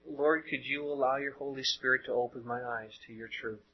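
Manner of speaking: softly spoken, sincere plea; humble prayer. Acted. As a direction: pray it quietly and humbly. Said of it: "Try saying".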